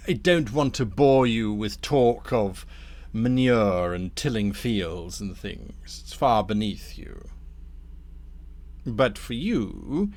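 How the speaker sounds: measured, ingratiating schemer; lightly voiced courteous Damnifer. Damnifer asks Thorn for a private word, lightly voiced smooth persuasion. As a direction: coax them politely aside. Game master plays Damnifer.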